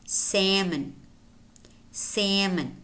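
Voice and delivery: salmon with a silent L, SAM-un; American pronunciation. Shown as a demonstration. Teacher models American word for learners, silent L in salmon. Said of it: "But in American English".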